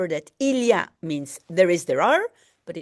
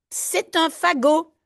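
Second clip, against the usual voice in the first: whisper; 7 semitones higher than usual. Acted. Whispered line from the book.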